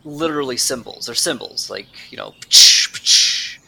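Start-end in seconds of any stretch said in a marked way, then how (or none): 2.4-3.6 clangy pch noise. Shown as a demonstration. Imitating a metal clang.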